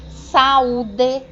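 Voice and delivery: "saúde" com A e U em sílabas separadas; vogais separadas. Shown as a demonstration. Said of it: "também separados". ("saúde" em hiato, sa-ú-de)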